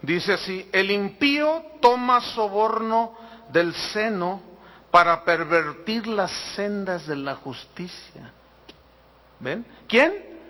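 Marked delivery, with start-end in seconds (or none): 0.7-8.3 slow, deliberate Bible reading; scripture reading. Real, not acted. Pastor reading a verse on bribes to the congregation, slow and deliberate. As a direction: read the verse out slowly, phrase by phrase.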